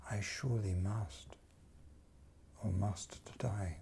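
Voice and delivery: hushed whispered vow. Acted. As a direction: breathe it out unvoiced. Whispered lines.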